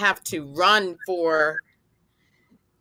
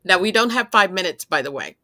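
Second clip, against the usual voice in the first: laughing, louder; 6 dB louder, faster than usual. Real, not acted. Host cutting time, laughing loudly.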